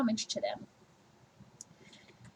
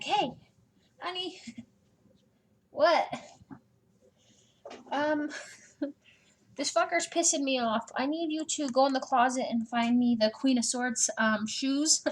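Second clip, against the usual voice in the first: raised, laughing bossy wife; mom ordering spouse; 3 semitones higher than usual. Pretend. Tarot queen ordering her spouse to fetch shoes, mock bossy and laughing. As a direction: playfully boss your partner around mid-crisis. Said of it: "you can't just be like".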